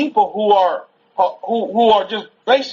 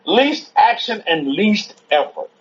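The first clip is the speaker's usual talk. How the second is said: "Least action and least effort" slowly, word by word; slow emphasis; slower than usual. Real, not acted. Student repeating "Least action and least effort" from the lecture, slowly emphatic. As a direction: spell out "Least action and least effort" at a measured pace.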